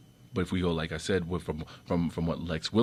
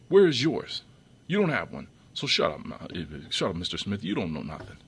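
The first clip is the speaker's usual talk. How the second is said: angry retort; 3 dB louder than usual. Real, not acted. To Mister Smith, scolding him angrily and loudly. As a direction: put him in his place, shut him down.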